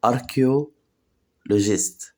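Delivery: Archaeologist drawn out very slowly, syllable by syllable; slow syllable drill. Shown as a demonstration. Teacher slowly drills Archaeologist for learners. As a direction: break Archaeologist into slow pieces. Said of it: "teacher drills the word slowly".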